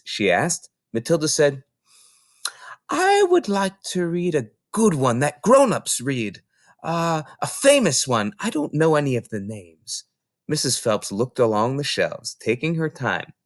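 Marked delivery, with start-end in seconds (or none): 2.9-10.0 put-on little girl voice. Matilda asks for grown-up book.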